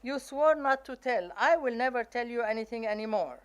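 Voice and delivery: a cousin furious at being betrayed; angry outburst. Retold or imitated. Cousin yells at younger sister for telling the secret. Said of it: "And my cousin says".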